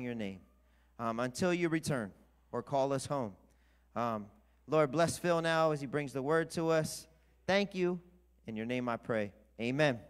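steady, reverent prayer voice; earnest prayer. Acted. Pastor praying over the guest preacher, reverent prayer. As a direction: pray it over the church, unhurried.

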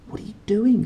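put-on alarmed boy. A narrator's reading. Roger alarmed at Lyra.

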